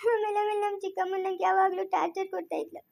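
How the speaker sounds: soft, crying through the words; tearful telling. Acted. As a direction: hold back sobs as you tell it. Girl recounts stepmother's cruelty. (ಅಳುತ್ತಾ ಮೆಲ್ಲಗೆ ಹೇಳುವುದು)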